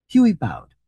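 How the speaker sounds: animated, expressive storybook reading; story narration. A narrator's reading. Reader telling a comic short story to listeners, animated narration. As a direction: read it out with lively rises and falls.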